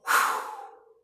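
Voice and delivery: loud forceful blown exhale; cannon breath. Shown as a demonstration. Teacher demonstrating cannon breath to the class, explosive exhale. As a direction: shoot the air out like a cannonball. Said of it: "what we call a cannon breath".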